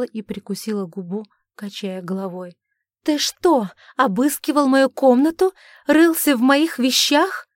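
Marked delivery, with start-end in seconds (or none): 3.1-7.5 high, loud indignant protest; outraged cry. A narrator's reading. Daughter protests to her father, high and loud. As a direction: hurl the question back at him.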